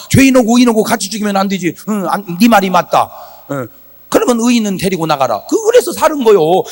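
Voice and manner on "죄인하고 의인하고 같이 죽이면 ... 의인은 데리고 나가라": quick, matter-of-fact retold concession; God conceding. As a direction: give in to a fair argument, lightly voiced. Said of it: "하나님이 가만히 그 말을 듣고 보니까". (수긍하는 하나님 흉내, 담담하게)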